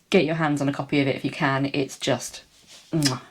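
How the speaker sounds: breathless after a long list; talking while short of breath. Real, not acted. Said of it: "Okay, I'm out of breath".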